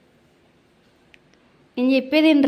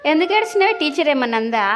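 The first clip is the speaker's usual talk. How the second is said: higher, louder demanding question; insistent questioning; 3 semitones higher, 4 dB louder than usual. Real, not acted. Mother asks her little son about his crying, insistent.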